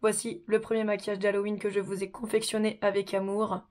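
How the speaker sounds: sick, hoarse voice from a sore throat. Real, not acted. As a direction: talk through a raspy, sick throat. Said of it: "j'ai une voix toute pourrie".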